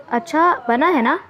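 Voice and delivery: eagerly asking for praise; hopeful and excited, wanting a compliment; a touch of boyish excitement. Acted. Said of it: "वो जोश में बोला".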